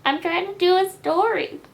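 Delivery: high, loud exasperated; loud scolding. Real, not acted. Loud take of line.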